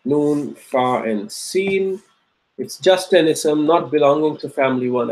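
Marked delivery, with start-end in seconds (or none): 0.1-2.0 slow spelled-out letters. Shown as a demonstration. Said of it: "teacher spells root letters slowly".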